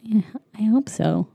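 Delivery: unvoiced whispered hope. Real, not acted. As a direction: whisper it as if she might hear.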